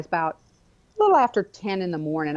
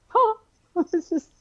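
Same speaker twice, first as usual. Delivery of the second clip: choked up; 5 semitones higher, 4 dB louder than usual. Real, not acted. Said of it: "crying laugh heard".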